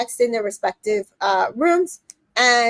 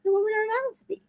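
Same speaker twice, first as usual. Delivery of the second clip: serious; 8 semitones higher, 8 dB quieter, faster than usual. Retold or imitated. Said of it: "He was serious".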